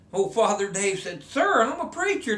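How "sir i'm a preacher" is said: prim preacher. Retold or imitated. Priest scolds guide's cursing.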